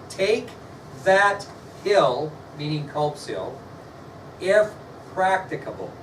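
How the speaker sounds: each word set apart by pauses. Shown as a demonstration. Teacher repeating the order to the class, word by word. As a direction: space out take, that, hill with a pause after each. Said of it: "I'll spell that for you".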